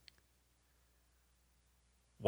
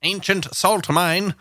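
slow, higher, wondering repeat; amazed slow repeat; 6 semitones higher, slower than usual. Real, not acted. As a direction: savor the words in awe. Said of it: "repeats phrase".

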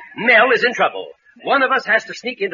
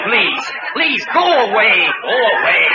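laughing plea; 3 semitones higher, slower than usual. Acted. Begs the joker to leave, laughing.

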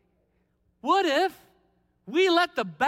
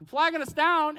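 mocking taunt. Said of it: "these Philistines are like".

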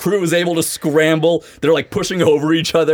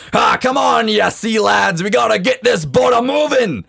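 hearty barked order, raised pitch; gruff dock worker hollering; 6 semitones higher than usual. Acted. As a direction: holler at the crew like a bosun. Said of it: "barking orders at them".

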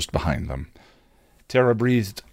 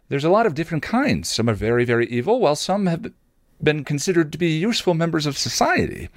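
high, quick chatty explainer; Anya explaining; 8 semitones higher, faster than usual. A narrator's reading. Anya explains the kinds of demons, lively and high. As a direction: rattle it off brightly, pitched up. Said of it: "Anya explained".

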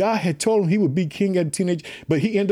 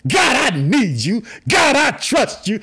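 shouted prayer; 4 semitones higher, slower than usual. Acted. Preacher voicing David's prayer, shouting it slow.

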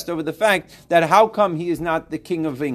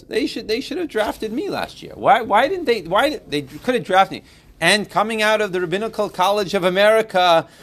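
raised, louder mock outrage at being overlooked; indignant boasting; 5 semitones higher, 5 dB louder than usual. Teacher playing a student sure the Bills should draft him, mock indignant. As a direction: puff yourself up, hammed-up disbelief they passed on you.

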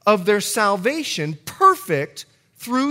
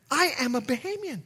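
higher, lilting Bahamian accent; 8 semitones higher than usual. Real, not acted. Preacher tells church of his island roots, Bahamian accent. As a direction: let the Bahamian accent come out. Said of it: "you can hear a little bit of my accent coming out".

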